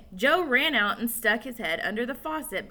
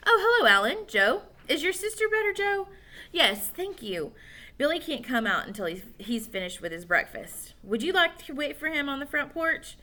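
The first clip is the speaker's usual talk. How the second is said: higher polite mom; mother voice; 5 semitones higher than usual. Acted. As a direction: greet them like mom. Mother greeting boys.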